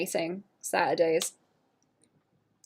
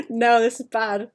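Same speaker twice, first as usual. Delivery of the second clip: louder pitched-up no; loud dismay; 3 semitones higher, 6 dB louder than usual. Retold or imitated. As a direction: blurt it out in dismay. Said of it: "I was like".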